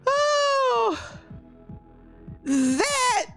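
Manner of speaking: very slow, high, crying with laughter; laughing to tears. Real, not acted. Host laughing to tears at the beard photo, barely getting words out.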